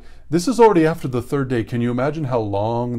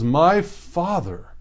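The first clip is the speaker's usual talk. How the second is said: slow, high, gentle "My father"; a son's trusting call, drawn out; Isaac calling his father; 5 semitones higher, much slower than usual. Acted.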